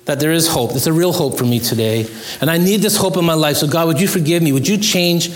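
a gentle, earnest prayer of confession. Acted. Pastor voicing a prayer for the congregation, humble and earnest. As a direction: pray it humbly, as if alone with God.

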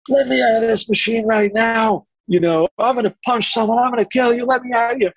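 high, panicked mock screaming to be let out; screaming victim. Shocked subject in the next room, high mock screaming. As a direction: cry out like the shocked man begging to escape.

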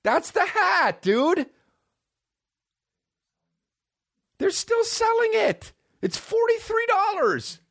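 high, slow, stretched disbelief that builds to a shout; shocked squeal. Real, not acted. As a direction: wail it out in amazement. Shocked the hat is still sold.

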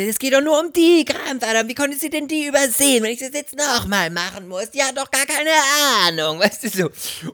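high, indignant ranting voice; retold anger. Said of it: "Da war ich so wütend". (hoher, empörter Nacherzählton)

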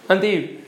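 "Anti" said quickly, syllables run together; casual, contracted "Anti"; quick, slurred. Shown as a demonstration. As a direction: blur "Anti" as in everyday speech. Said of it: "how do we say it quickly?".

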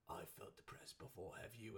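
mock English accent. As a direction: put on a soft, moody English accent. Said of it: "the accent was good".

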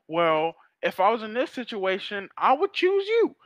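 mock girl, going up high at the end; sweet, high-pitched girl. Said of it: "the girl just been like".

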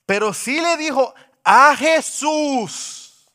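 slow booming sermon delivery; fiery preaching. Acted. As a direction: preach it to the back pew. Preacher at full force.

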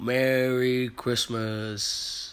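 booming, slow Santa Claus laugh; belly-laugh it out like Santa; jolly ho ho ho. Acted. Podcast intro, cut out after.

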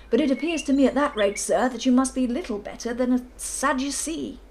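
put-on loud, booming old colonel; bluff colonel. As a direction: boom it across the golf links. Narrator voices the Colonel.

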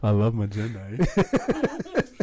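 very slow Southern drawl; Forrest Gump. Acted. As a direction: drawl it like a simple Southern man. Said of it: "Pretend you're Jenny and do Forrest Gump".

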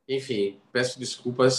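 congested, nasal cold voice; stuffy nose. Real, not acted. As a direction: talk with a blocked-up nose.

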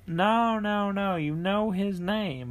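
high, slow, insisting on the title; insistent customer. Retold or imitated. The customer corrects the theater worker, high and slow. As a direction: spell it out for the clueless worker. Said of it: "He said".

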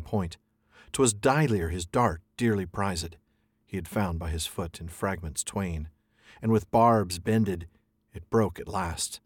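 slow, fading verse reading; alliterative verse. Shown as a demonstration. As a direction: read the old poem slowly, darkening. Reads alliterative verse from Canto.

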